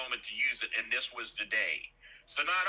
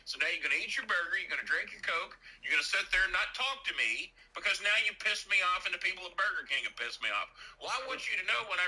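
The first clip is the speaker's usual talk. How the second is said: higher, scolding lecture of an angry son; raised scolding; 6 semitones higher than usual. Retold or imitated. Son scolding mom at Burger King, raised angry voice. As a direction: lay down the law, irritated.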